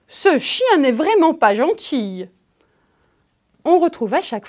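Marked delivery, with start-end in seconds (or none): 0.1-2.3 mock anger. Shown as a demonstration. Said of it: "La colère".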